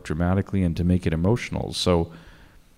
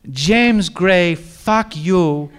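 higher, louder laughing mock curse; 8 semitones higher, 6 dB louder, much slower than usual. Actress cursing the director mid-scene, higher laughing jab. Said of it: "she'd go".

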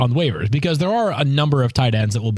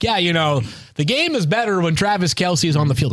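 slick imitation; 6 semitones higher than usual. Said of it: "he's trying to be slick".

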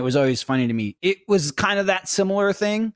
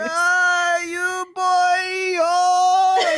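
put-on high, shouted old-woman voice; old Hungarian grandma; much slower than usual. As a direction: play a scolding tiny grandma, pitched way up. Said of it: "And she'd be like".

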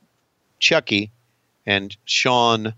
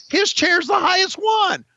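mocking Conrad. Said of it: "'Cause Conrad said".

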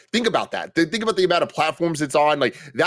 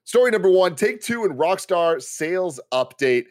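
bigger announcer intro; 5 semitones higher than usual. Shown as a demonstration. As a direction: announce the headline with more energy. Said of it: "Okay, start again".

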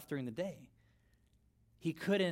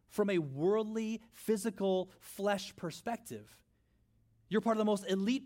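building preaching; 5 semitones higher than usual. Real, not acted. Preaching builds to full force.

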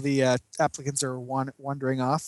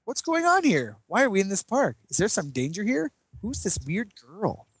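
high, dazed questions, slowing at the end; bewildered and lost, hammed up; comically befuddled superhero; mock confused hero; 5 semitones higher than usual. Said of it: "Cosmic Boy's like".

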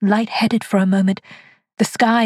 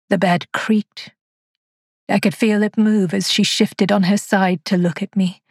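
ordinary delivery

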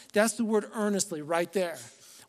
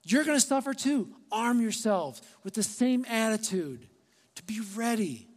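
urgent Peter; 3 semitones higher than usual. Retold or imitated. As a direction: rouse the church like Peter calling them awake. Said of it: "Peter's like".

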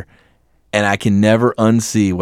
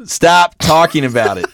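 exasperated; 5 semitones higher than usual. Real, not acted. Begging co-host to stop.

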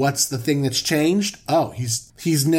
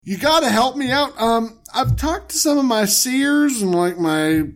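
panicked plea; 6 semitones higher than usual. Pretend. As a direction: beg for help in a panic. Panicked Pharaoh pleading.

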